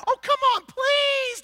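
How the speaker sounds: very high, loud begging; hammed-up pleading hosts. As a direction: beg him to stay with exaggerated urgency. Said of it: "they're like".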